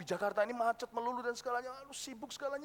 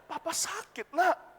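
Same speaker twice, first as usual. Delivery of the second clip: high, pitiful sick plea; ailing father; 5 semitones higher, slower than usual. Acted. Father telling his child he is ill, pitiful. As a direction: plead weakly after a cough. Father pleading illness after coughing.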